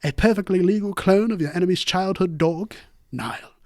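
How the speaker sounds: lightly put-on British documentary narration; measured British narrator reading an ad; David Attenborough. Co-host reading a sponsor ad on request, mock British naturalist. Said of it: "David Attenborough, yeah".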